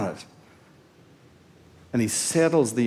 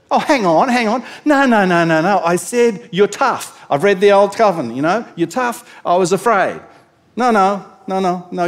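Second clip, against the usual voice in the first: loud, higher, frantic protesting; panicked protest; 4 semitones higher, 6 dB louder than usual. Acted. Servant protesting to his master, loud and frantic. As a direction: cut in desperately, voice up.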